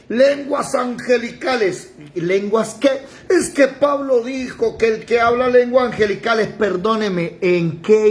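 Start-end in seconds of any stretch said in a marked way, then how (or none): 0.1-1.9 higher, slow mimicked answer; mock defensive believer. Believer answering which tongue he speaks, mock defensive. 3.3-6.5 raised-pitch imitation of an objector; mock defensive believer. Believer citing Paul to the preacher, mock defensive. Mimics a believer arguing back.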